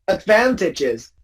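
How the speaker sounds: advantages with the stress on VAN; slow ad-VAN-tages; instinctive second-syllable stress. Shown as a demonstration. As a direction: say advantages slowly as ad-VAN-ta-ges. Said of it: "most people will say instinctively".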